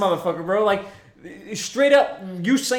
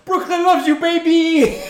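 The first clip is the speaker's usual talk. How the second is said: put-on higher, louder Brooklyn accent call; 10 semitones higher, 8 dB louder, slower than usual. Drunk guy calling to a man leaving the bar, loud Brooklyn accent. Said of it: "my Brooklyn accent".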